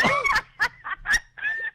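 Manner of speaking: very high squeal of laughter; shrieking laugh. Real, not acted. Host caught out by her own slip, shrieking laugh. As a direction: burst out in a high-pitched cackle.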